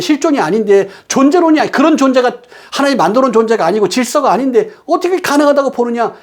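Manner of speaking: high-pitched, insistent preacher voice; emphatic preaching. Real, not acted. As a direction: drive the warning home from the pulpit. Preaches with raised intensity.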